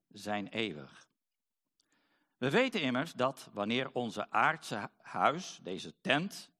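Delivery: measured Bible reading with lifted key words; scripture reading. Acted. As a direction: read scripture to the congregation, phrase by phrase. Reads Bible passage aloud to congregation. (gedragen Bijbellezing, zin voor zin)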